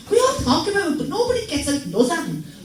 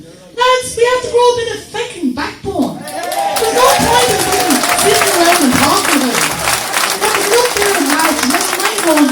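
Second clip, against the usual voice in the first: loud, raised rallying cry to the crowd; fired-up speech yelled at a protest meeting; impassioned shout; 7 semitones higher, 6 dB louder than usual. Real, not acted. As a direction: roar it out to rouse the room.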